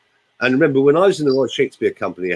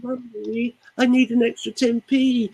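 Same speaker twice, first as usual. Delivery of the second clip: put-on high coaxing little-child voice asking Mummy; wheedling small child; 11 semitones higher than usual. Shown as a demonstration.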